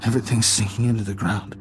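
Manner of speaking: dazed, fragmented murmuring to oneself; zoned out. Acted. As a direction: ramble as if barely aware of anyone around. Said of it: "zoned out like that".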